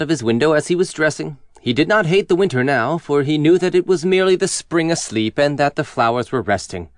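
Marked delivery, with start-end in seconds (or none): none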